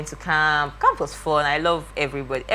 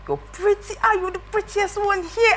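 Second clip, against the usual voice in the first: a hint of comforting mom. Mom voiced comforting crying daughter.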